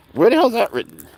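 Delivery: high, loud incredulous outburst; outraged question. Real, not acted. Telling a vlog audience about the doctors, indignant. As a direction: disbelief rising sharply in pitch.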